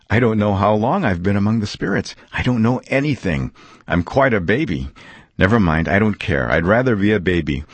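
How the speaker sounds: lightly voiced old man giddy as a baby; happily confused Scrooge.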